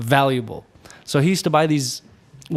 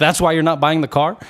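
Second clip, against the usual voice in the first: mock angry; 2 semitones higher, 3 dB louder, faster than usual. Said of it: "like, really angry".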